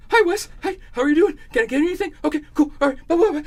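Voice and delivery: fake-nice suck-up chirp; imitating the manager's sudden fake friendliness; mock overfriendly greeting. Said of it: "he is just like".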